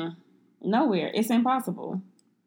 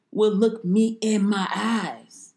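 put-on old lady voice; slower than usual. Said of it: "He sounds like an old ass lady".

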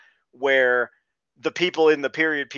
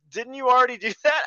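high, louder, laughing disbelief; incredulous; 10 semitones higher, 6 dB louder, faster than usual. Retold or imitated. Crewman mocking the crew for speechifying again, high and incredulous. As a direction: poke fun at the repeated speeches. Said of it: "He's like".

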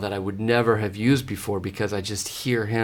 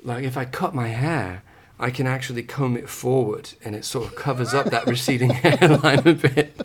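put-on a light, casual British accent, asked for; playful put-on British accent. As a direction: answer the question in a lightly done British accent. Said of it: "in British?".

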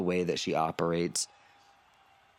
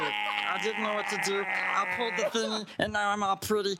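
much higher, relieved rush; panicked real self; 12 semitones higher than usual. Acted. Disguised figure confessing to Lance once the door shuts, much higher. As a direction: drop the act in frantic relief. Disguised character begging for help.

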